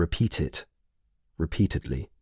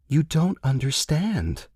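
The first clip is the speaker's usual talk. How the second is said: dropped, parental; 7 semitones higher, slower than usual. A narrator's reading. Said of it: "Her voice had dropped, like parent to child".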